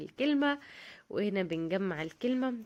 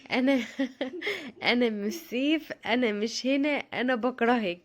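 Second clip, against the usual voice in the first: reading son's note; 3 semitones higher, 4 dB louder than usual. Retold or imitated. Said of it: "كاتب لي فيها".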